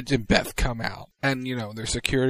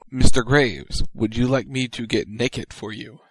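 mock quote; 5 dB louder than usual. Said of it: "and I quote".

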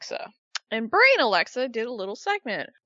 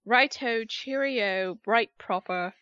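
bad English accent; slower than usual. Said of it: "can't do an English accent".

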